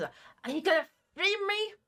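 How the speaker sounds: hissing creature voice with swooping pitch. A creature stuck in a plant speaks to you, hissing creature voice. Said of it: "And it just hisses".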